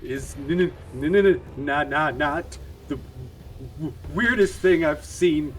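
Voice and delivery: teeth chattering with cold; shivering stutter. Acted. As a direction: stammer through the shivers. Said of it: "I'm shivering".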